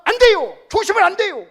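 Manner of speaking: loud, high desperate plea; Peter's protest. Acted. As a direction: cry out to stop him. Peter protesting Jesus' death.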